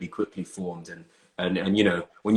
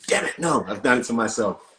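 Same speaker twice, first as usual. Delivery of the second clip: normal talking voice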